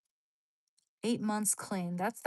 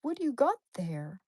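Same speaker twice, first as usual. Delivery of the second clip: dog voice; 2 semitones higher than usual. Retold or imitated. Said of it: "looking at me like".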